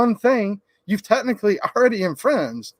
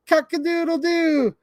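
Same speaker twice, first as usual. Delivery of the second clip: high, drawn-out cock-a-doodle crow; rooster crow; 9 semitones higher than usual. Acted. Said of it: "He can sound like a rooster".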